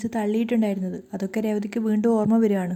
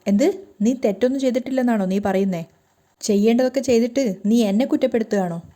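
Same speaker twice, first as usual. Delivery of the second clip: rising angry retort, getting louder; angry outburst; 3 dB louder than usual. Acted. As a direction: snap back at his wife in anger. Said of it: "പൊട്ടിത്തെറിക്കുന്നുണ്ട്".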